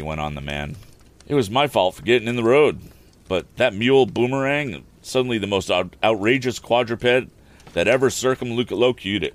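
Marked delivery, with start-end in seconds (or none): 1.3-7.3 lightly voiced old mule driver, a bit higher and louder; a rustic carter explaining himself, lightly put on; rambling wagon driver.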